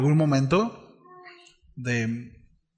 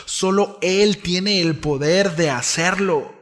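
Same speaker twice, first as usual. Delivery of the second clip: building proclamation; 4 semitones higher, 3 dB louder, slower than usual. Acted. Preacher building to climax.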